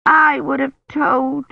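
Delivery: high, loud, slow sobbing cry; little girl breaking into tears; crying child. A narrator's reading. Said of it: "really crying now".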